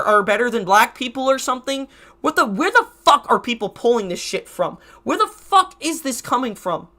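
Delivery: normal talking voice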